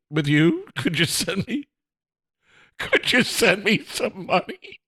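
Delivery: cheeky conspiratorial whisper; a playful hushed plea for cash; sly whispered ask. Pretend. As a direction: whisper the request for money.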